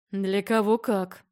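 slow, scornful snort of a reply. A narrator's reading. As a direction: scoff it out slowly. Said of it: "Фыркнул он".

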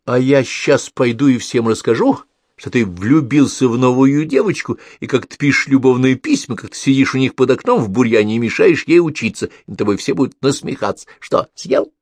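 loud gloating little brother; gloating kid. A narrator's reading. Pavlik gloats over his brother, loud kid voice. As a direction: threaten to blab like a brat. Pavlik threatens to tell all.

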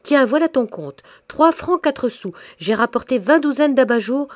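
put-on a ten-year-old bursting in, shouting; little girl shouting happily to her mother; piping child's shout. A narrator's reading. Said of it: "en criant de sa voix flûtée".

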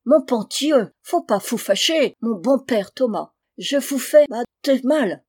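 thick German accent, French words softened and devoiced. German recruiter coaxing father Thomas, in a thick German accent. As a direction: play a German gentleman bargaining in heavy German-accented French.

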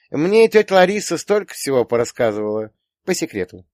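put-on high girlish gossip, dropping at the end; confiding daughter. A narrator's reading. Daughter reveals gossip to father. (дочь сплетничает, высоко, в конце тише)

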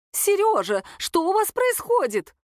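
high and slow, voice breaking up; shrill alarm from a flustered older woman; high, cracking voice. A narrator's reading. Свекровь входит и видит ссору — высокий срывающийся голос. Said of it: "высоким срывающимся голосом".

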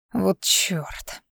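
annoyed whisper after the spill; muttered curse. A narrator's reading. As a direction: mutter it to yourself. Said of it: "пробормотал он".

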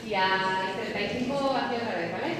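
calling out. Real, not acted. Calling audience back time.

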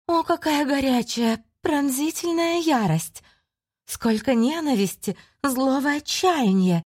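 high, slow, relishing demon voice; admiring demon whisper. Acted. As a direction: savour every word like a predator. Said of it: "восхищённо прошептала Дершакс".

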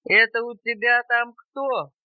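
lightly voiced grumpy bear, loud; a hint of a gruff demand; grumbling bear. A narrator's reading. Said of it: "пробурчал медведь".

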